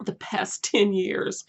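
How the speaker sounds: slow, half-whispered, throat tight with emotion; getting teary mid-sentence and barely voicing it; choked up. Real, not acted. Reading the author's prison volunteer work, choked up and whispering. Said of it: "I'm choking up".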